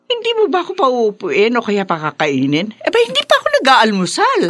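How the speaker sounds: high, fast, put-upon protest; a mother-in-law huffing that nobody has fed her; indignant complaint. Acted. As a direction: squeak it out in fussy outrage. Mother-in-law complains about no breakfast.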